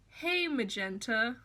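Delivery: a hint of a creepy homecoming; mock Riff Raff. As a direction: call out tenderly into the coffin. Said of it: "he goes".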